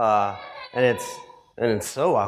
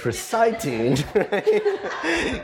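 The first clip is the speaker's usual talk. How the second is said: laughing; 10 semitones higher, much slower than usual. Real, not acted. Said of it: "I don't know why I said it that way".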